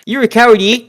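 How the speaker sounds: hammed-up Canadian heckle; mock Canadian accent. Cohost heckles Gunther as Bret, in a mock Canadian accent.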